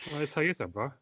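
hammed-up Cockney wrestler promo; Cockney Hulk Hogan. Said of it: "Cockney Hulk Hogan would be the best one".

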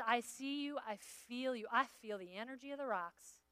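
mock a spacey empath; new-age mockery. Preacher mocking empaths, soft dreamy new-age voice. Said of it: "Empathy is".

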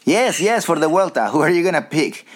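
lightly voiced Klaus pressing; imitating Klaus. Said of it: "I'll try to Klaus".

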